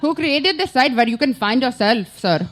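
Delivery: light Indian accent impression; slow, lightly done Indian accent. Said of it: "now it's like an Indian accent".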